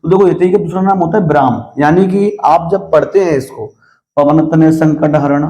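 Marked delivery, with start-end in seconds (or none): 4.2-5.5 slow recitation of "पवन तनय संकट हरण", then a stop; demonstrating the yati pause; pause at the comma. Shown as a demonstration. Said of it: "तो आप रुके".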